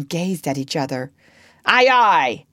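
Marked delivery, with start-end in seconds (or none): 1.6-2.5 loud, raised, carefree reply; blithe. A narrator's reading. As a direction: answer the captain blithely. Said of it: "said Jukes blithely".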